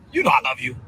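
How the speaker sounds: everyday, low-key "I love you"; casual I love you. Shown as a demonstration. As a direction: toss off the affection casually. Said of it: "Those are three different ways".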